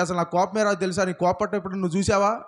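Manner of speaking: quick, heated snap of a man denying his temper; hammed-up angry insistence; mock angry denial. Shown as a demonstration. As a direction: fire it back fast, angry while claiming calm. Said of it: "నా voice ఎలా ఉంది? కోపంగా ఉంది".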